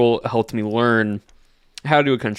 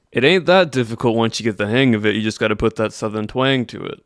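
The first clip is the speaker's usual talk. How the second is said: practiced Southern accent, twang put on. Shown as a demonstration. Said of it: "it basically goes something like this".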